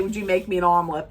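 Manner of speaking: fast, throwaway mock request; quick flat rattle; rattled-off version. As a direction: rush it like she didn't say it. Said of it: "She didn't say".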